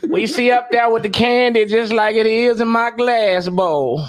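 laughing grandma voice. Retold or imitated. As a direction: dote like a grandma with candy. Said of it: "grandma voice".

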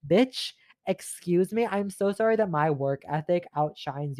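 slow, drawn-out sassy bitch, excuse me; sassy retort. Retold or imitated. Clapping back at Michelle, slow sassy drawl.

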